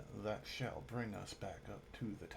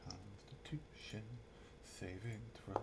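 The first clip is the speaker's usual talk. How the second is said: whispering; 9 dB quieter, slower than usual. Real, not acted. Muttering while rolling.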